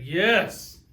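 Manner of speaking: a pumped yes with a different voice; mock celebratory yes; excited cheer. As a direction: cheer it like good news just landed. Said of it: "And you're like".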